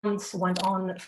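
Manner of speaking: deliberate reading, pausing between phrases; measured spoken-word poem; poem recital. Acted. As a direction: open lines firmly and let them fall away. Reads own poem aloud.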